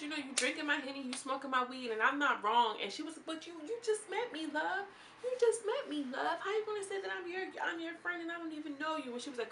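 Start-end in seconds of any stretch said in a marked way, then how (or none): 0.0-2.8 high-pitched mock retort, lightly voiced; mimicking housemate. Host mimicking a housemate's comeback, high and sassy. 3.2-9.1 much higher, laughing mock voice; mimicking housemate. Host imitating a housemate calling her out, high and laughing.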